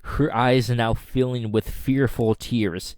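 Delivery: ordinary talk, nothing marked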